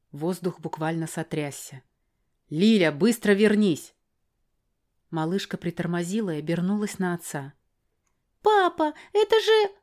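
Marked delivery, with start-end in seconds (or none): 2.5-3.9 father's firm loud call; sharp call. Acted. Father calling his daughter back, loud and firm. 8.4-9.7 put-on high child's voice, excited; a small girl pointing something out; little girl's voice. Little girl to her father, high and eager. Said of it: "Она показала на дорожку".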